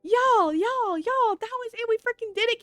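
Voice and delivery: high, thrilled victory cries; excited shouting. Real, not acted. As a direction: cheer like you just won. Celebrating completion.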